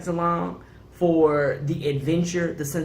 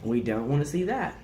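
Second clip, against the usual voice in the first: hushing; 3 semitones lower, 5 dB quieter than usual. Retold or imitated. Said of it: "I was like".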